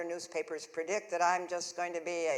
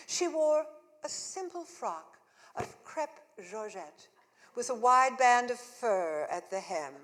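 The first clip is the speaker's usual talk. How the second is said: reading the review; 4 dB louder than usual. Retold or imitated. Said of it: "the reviewer writes".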